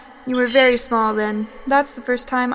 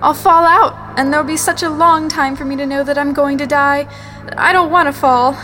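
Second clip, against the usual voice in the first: fearful outcry; 5 dB louder than usual. Acted. Terror of falling from plane.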